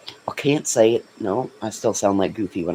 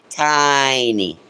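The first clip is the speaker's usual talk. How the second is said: goofy voice; 4 semitones higher than usual. Shown as a demonstration. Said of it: "making her sound like Goofy".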